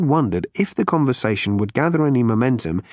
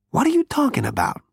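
higher, brash Zaphod voice; 12 semitones higher than usual. A narrator's reading.

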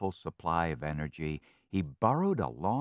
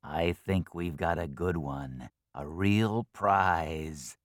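gloating fox; 3 dB louder, slower than usual. Acted. Fox gloats over the prize.

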